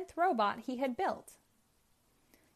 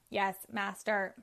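squeaky robot; slower than usual. Acted. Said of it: "said the robot in a squeaky voice".

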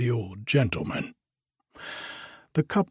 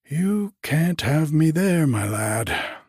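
higher, louder, cheerful comeback; cheery retort; 6 semitones higher, 4 dB louder than usual. A narrator's reading. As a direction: toss it back cheerily. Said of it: "retorted Boots cheerily".

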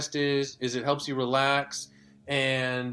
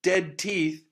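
worm voice; 5 semitones higher than usual. Retold or imitated. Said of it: "worms doffing their baseball caps, going like".

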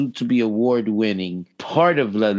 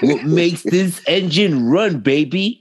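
hammed-up hype; 5 semitones higher, slower than usual. Hyped closing line.

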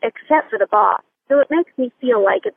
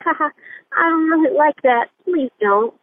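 light, happy joking tone, pitched up at first; slightly joking; 5 semitones higher than usual. Retold or imitated. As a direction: soften the objection with a playful ha-ha. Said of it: "slightly joking in a happy tone".

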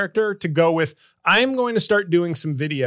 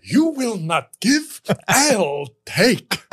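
mock film outburst; 3 semitones higher, much slower than usual. Mimicking a Godfather film line.

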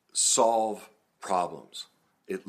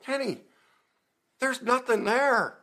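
mock blunt self-talk; 4 dB louder than usual. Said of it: "I see pictures, I'm like".

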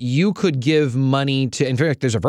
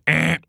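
wrong buzzer sound. Pretend. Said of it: "I'm gonna do a wrong buzzer sound".

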